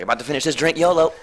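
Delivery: high, loud yolo holler; hyped party shout. Retold or imitated. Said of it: "I'll be like".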